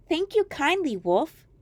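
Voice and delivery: put-on high, innocent girl reply; a trusting child thanking a stranger; little girl voice. Girl answers wolf.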